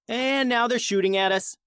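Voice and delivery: growled. A narrator's reading. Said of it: "Arya growled".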